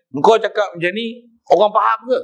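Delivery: a master gently chiding his pupil; teacher's rebuke. Retold or imitated. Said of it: "Dia tegur". (teguran guru yang lembut)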